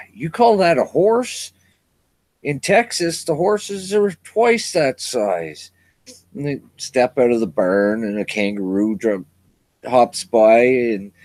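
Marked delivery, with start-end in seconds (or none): 0.1-5.7 lightly voiced boastful Texan.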